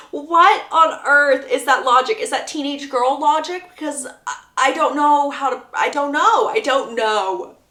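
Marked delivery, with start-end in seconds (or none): 0.1-3.7 loud, slowed, leaning on what; exasperated disbelief. Real, not acted. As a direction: spell out her outrage. Repeats her baffled question.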